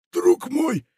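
high, eager pirate exclamation; pirate exclaiming. A narrator's reading. Pirate greets Funtik with a high eager exclamation. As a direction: cry out warmly to a new friend. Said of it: "воскликнул Рваная Майка".

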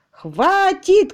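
high, loud yelled enough; shout. Acted. Tutor yelling at his employer that he has had enough. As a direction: bark it out at full voice. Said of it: "кричал он".

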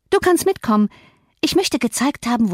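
put-on high, haughty girl's voice; spoilt girl. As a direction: talk down to the servant like a little mistress. Spoilt girl commanding a servant. (hohe, hochmütige Mädchenstimme)

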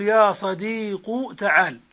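صديق ends in a short u, slow demo; dhamma ending. Shown as a demonstration. Teacher demonstrating the vocative to students, slow dhamma ending. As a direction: say صديق with final u, no ya. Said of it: "بحذف الياء وضم آخر الاسم".

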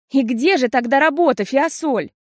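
unyielding. A narrator's reading. Sister firmly demands where the exam is. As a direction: press her without mercy. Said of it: "непреклонно спросила Бидда".

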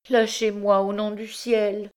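high-pitched desperate appeal; frantic plea, pitched high; terrified pleading. A narrator's reading. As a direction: beg to be let go. Girl begs to be released.

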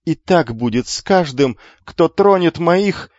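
slow, loud rising threat; threatening. Acted. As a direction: menace the brothers. Noble threatens the twins.

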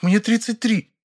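high, offended correction; indignant. A narrator's reading. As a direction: bristle at the insult. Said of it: "возмутилась Верка".

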